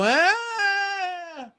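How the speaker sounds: long high mock scream; high wailing "aah" in imitation; imitated scream. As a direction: mimic a frightened child's drawn-out shriek. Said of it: "he'd run away screaming".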